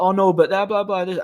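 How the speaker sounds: high-pitched mock complaining; mimicked protest. Woman objecting to the doorman's advice, high mimicked protest.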